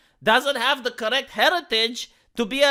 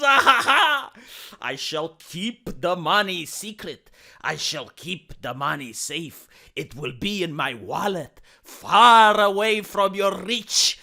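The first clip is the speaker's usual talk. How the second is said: hammed-up villain; 4 semitones lower, slower than usual.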